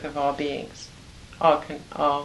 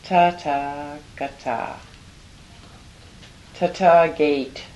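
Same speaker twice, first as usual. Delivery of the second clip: slow, deliberate syllables; slow demo; slower than usual. Shown as a demonstration. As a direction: model it slowly. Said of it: "Let's hear it".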